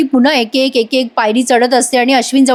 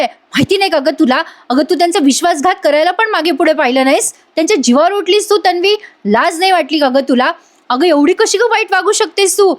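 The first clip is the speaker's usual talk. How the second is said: mock scolding, pitched up without real shouting; retold angry scolding; 5 semitones higher than usual. Kalpana scolds Tanvi for betraying the family's trust, mild retold scolding. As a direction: act out a higher-voiced indignant telling-off. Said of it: "कल्पनाताई ओरडत असतात".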